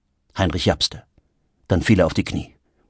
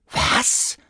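shocked exclamation. Acted. Shocked friend reacts in quarrel.

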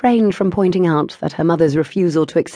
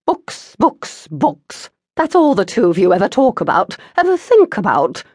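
exasperated mother; 3 semitones higher, 3 dB louder than usual. A narrator's reading. Mother exasperated, hands in air.

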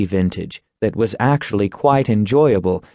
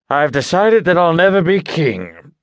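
deep voice; 6 semitones higher than usual. A narrator's reading. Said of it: "in his deep voice".

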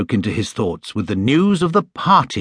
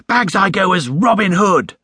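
put-on a boy calling dibs, pitched up high; eager exclaim; 8 semitones higher than usual. A narrator's reading. Jonathan claiming his costume, excited high exclaim. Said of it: "exclaimed Jonathan".

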